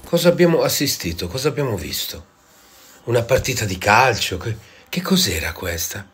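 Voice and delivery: loud indignant complaint; outraged rant. Acted. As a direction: rage at the match. Outraged rant about the match.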